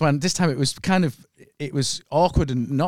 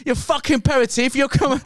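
angry retold quote in a higher-pitched half-Chinese, half-Cockney accent; mock Chinese-Cockney accent, pitched up; imitated Chinese-Cockney accent; 8 semitones higher, 4 dB louder than usual. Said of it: "that's half Chinese and half Cockney".

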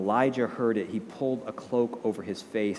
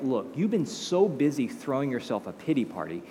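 rousing declaration; 4 semitones higher, 4 dB louder than usual. Retold or imitated. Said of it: "God's like".

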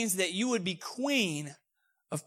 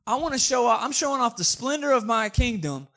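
put-on a touch of boastful drunken king, louder and higher; lekko pijany król; 4 semitones higher, 4 dB louder than usual. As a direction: brag loudly to your boys, playing tipsy. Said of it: "So he's drunk".

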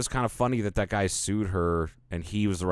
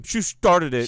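high whiny mimicry; mocking whiny voice; 9 semitones higher, 6 dB louder, slower than usual. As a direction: parrot the excuse in a whiny voice. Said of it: "you sound like the guy on the fucking bunny slope".

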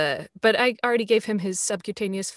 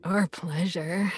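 slow breathy whisper, sultry clown; sexy clown voice; 2 semitones lower, 3 dB quieter, slower than usual. Pretend. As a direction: purr it like a seductive clown. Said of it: "That's the sexy clown voices".

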